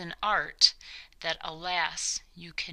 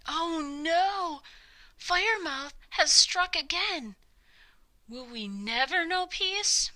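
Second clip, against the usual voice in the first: alarmed townsfolk; 9 semitones higher than usual. Acted. Townsfolk panic at the news.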